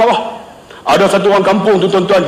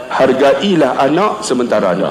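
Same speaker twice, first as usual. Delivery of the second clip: low tone; 8 semitones lower than usual. Retold or imitated. Principal advising the ustaz about children, low tone. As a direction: drop the pitch for a piece of advice. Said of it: "dia nada rendah".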